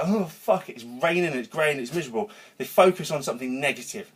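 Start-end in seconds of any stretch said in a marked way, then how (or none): 0.0-2.3 mock grumble. Coach imitating people moaning at rain, mock grumble. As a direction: grumble about the rain like a gloomy person. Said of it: "most people go".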